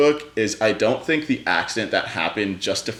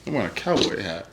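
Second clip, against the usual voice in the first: put-on Western accent; 4 dB quieter than usual. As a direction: play it as a Western cowboy accent. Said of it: "I'm supposed to have a Western".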